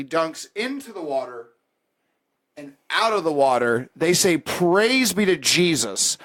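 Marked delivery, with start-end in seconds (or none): 4.4-6.2 slow, raised proclaiming voice; baptism proclamation. Retold or imitated. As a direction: proclaim it slowly like a church officiant.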